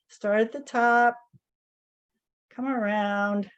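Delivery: calm, unhurried guiding with long pauses; guided meditation. Real, not acted. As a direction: gently lead a group through each movement, leaving space between phrases. Leads guided tapping meditation.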